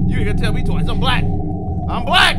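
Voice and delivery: loud panicked yelling while running; real fright shouting; frantic shouting. Real, not acted. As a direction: shout it out as you flee. Fleeing after scare.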